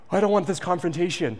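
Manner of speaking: mock anxious plea. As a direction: plead to avoid the fight, lightly. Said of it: "I was like".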